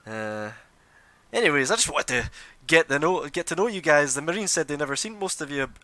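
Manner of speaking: pompous noble. Acted. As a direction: brag about being first on the scene. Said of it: "Andrew's like".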